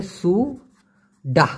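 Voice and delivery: সু ডাহ split into two slow syllables with a pause; syllable-by-syllable teaching of সু ডাহ; careful pronunciation. Shown as a demonstration. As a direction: say সু, pause, then ডাহ clearly. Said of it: "উচ্চারণটা হবে".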